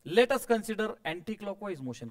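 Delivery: slow, word-by-word dictation to the class; unhurried dictation to the students. Shown as a demonstration. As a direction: read it out slowly for the class to write. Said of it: "teacher dictates a statement".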